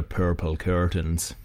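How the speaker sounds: "purple curtains" slowly with Scottish-style R's; rolled R's. Shown as a demonstration. Guest showing southern settlers' speech, R's sounded in "purple curtains". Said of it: "people that roll their R's".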